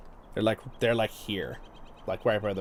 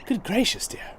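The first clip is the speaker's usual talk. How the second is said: higher, put-on queenly concern; prim queen; 8 semitones higher than usual. Retelling the movie to viewers, a lightly voiced prim queen. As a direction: ham up a fussy, proper queen. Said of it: "And the queen's like".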